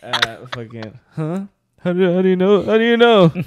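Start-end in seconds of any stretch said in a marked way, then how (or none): 1.8-3.3 higher, louder astonished question; shocked. Retold or imitated. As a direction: blurt it out in disbelief. Acting a shocked question in story.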